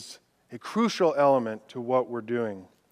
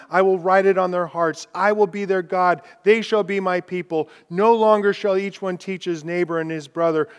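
loud, raised declaration of God's promises; proclaiming scripture; 3 semitones higher, 6 dB louder than usual. Acted. Preacher voicing God's covenant to the congregation, loudly. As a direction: thunder each promise out.

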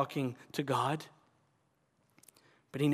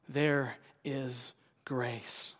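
tender refrain; 3 semitones lower, 3 dB quieter, much slower than usual. Acted. Sermon refrain after each need.

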